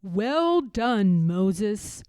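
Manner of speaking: a warm divine blessing; voice of God. Acted. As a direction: commend her proudly. God praises Harriet.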